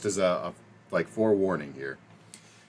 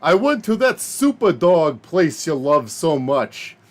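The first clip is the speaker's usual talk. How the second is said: put-on coworker's New York–Chicago accent; 5 semitones higher than usual. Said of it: "New York Jewish and South Side of Chicago white guy".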